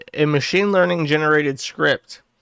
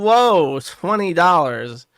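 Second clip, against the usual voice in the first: mock surprise; 3 semitones higher, 3 dB louder, slower than usual. Voicing a chatter's amazed reaction to the tip. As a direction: act amazed at the money.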